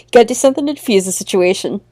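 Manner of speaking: fast whispered aside; hurried laughing whisper. Real, not acted. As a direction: mutter it to yourself quickly. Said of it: "unvoiced whisper".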